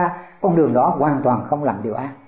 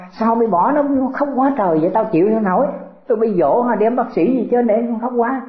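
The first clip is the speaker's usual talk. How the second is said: fretting grandfather; 5 semitones higher than usual. Retold or imitated. Grandfather upset by crying grandchild.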